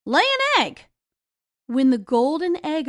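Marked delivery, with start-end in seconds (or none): 0.1-0.9 loud, high command to the hen. Acted. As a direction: bark the order at the hen.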